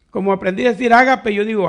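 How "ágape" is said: "ágape" accented on its opening syllable, Á-ga-pe; ágape stressed on first A. Shown as a demonstration. Preacher explaining how he learned it, "ágape" stressed on the first A. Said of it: "como que tuviera acento en la A".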